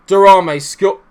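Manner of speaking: rising to a loud goal call, cut short; half a goal celebration, loud and high; excited shout. Real, not acted. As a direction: start yelling the goal and break off. Goal chance, commentary cut off.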